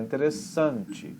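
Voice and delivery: "interessante" carried along to a strong SAN; stress near the end. Shown as a demonstration. Teacher showing Portuguese intonation, force at the end. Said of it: "dá a força lá no final".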